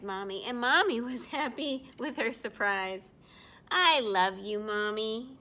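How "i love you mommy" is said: tender. Acted. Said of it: "said Snowy".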